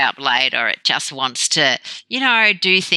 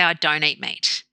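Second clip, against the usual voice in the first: plain, matter-of-fact statement; empowered refusal. Retold or imitated. Vegetarian declining meat when offered, empowered refusal. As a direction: state it simply, as a settled choice. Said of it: "you are empowered then by saying".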